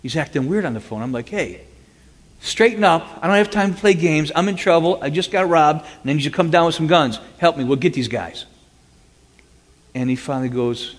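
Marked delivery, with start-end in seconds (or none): 1.3-8.4 higher, louder urgent plea. Retold or imitated. Phoning his buddy in trouble, urgent. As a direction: snap him out of it.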